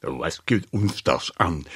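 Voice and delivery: put-on low, placating old uncle; soothing. A narrator's reading. Uncle Steve calms the other uncle, soothing. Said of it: "bemerkte Onkel Steve begütigend".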